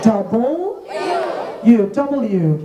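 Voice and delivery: "Double U" split in two, then joined; correct W. Shown as a demonstration. Teacher drilling pupils, "Double U" in separate parts. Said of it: "আগে বলো ডাবল".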